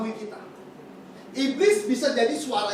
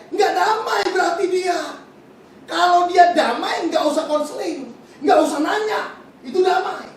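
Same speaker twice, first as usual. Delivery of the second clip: preaching shout; 4 semitones higher, 7 dB louder than usual. Real, not acted. Preacher telling the congregation the one sign of God, shouting. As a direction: drive it home with a shout. Preacher hammering home his point.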